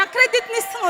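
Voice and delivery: incredulidade entre risos; rindo de surpresa. Retold or imitated. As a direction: rindo sem acreditar no presente. Ao achar o presente na gaveta. (surpresa alegre, rindo)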